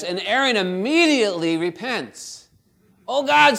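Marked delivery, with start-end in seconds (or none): 3.1-3.6 frightened plea. Retold or imitated. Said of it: "he's afraid what's gonna happen".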